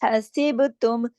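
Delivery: हसीब तुम slow, with a bouncing qalqala on ब; slow Quranic reading of हसीब तुम; tajweed recitation. Shown as a demonstration. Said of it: "बा पे कलकला होगा".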